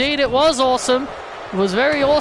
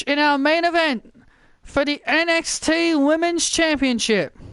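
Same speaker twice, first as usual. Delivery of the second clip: raised, projected wrestling broadcast voice; match announcing; 5 semitones higher than usual. Acted. Commentator telling viewers of the disqualification and main event, broadcast announcing. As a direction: announce the result and move the show along.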